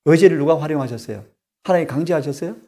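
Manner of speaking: usual speaking voice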